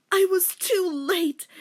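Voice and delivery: slow, high, loud lament; hammed-up despair; mock anguished cry. Denmark lamenting, slow and loud.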